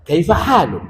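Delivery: "kaifa halu" with halu punched, then falling; Arabic question tune on halu. Shown as a demonstration. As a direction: model the correct Arabic intonation on halu. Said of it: "nadanya nggak seperti".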